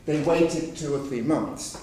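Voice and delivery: slow, even written-English phrasing. Shown as a demonstration. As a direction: read it calmly, without emphasis. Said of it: "in written English less emphatically".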